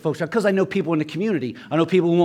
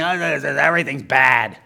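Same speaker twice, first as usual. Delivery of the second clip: sour complainer. Retold or imitated. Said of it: "You're like".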